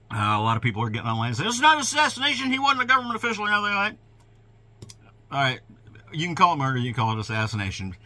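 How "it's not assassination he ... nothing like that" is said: mocking. Mocking online commenters.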